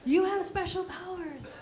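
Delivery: hammed-up believers pleading; insistent believers. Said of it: "they're like".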